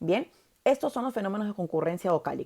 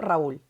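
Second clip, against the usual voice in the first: Raúl with the ú stronger than the a; stress on the U; 3 semitones lower than usual. Shown as a demonstration. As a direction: say Raúl in two syllables, leaning on úl. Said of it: "La U suena más que la A".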